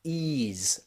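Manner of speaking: "ease" repeated softly with a long ee; long E pronunciation. Shown as a demonstration. Teacher repeating the ESE sound, soft long E. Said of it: "that E S E is pronounced".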